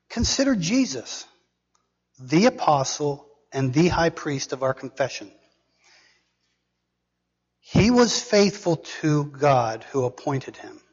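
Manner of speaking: deliberate, weighty Bible reading; scripture reading. Acted. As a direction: read scripture out in emphatic, spaced phrases. Reads scripture aloud to congregation.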